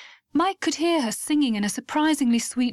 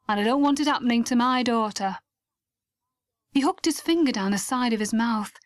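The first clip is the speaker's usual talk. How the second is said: a hint of a stern, protective mum; stern mother. Mother warning Mike to look after Lucy, lightly stern. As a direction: warn him off lightly, as Lucy's mother. Mrs Cragwell warns Mike.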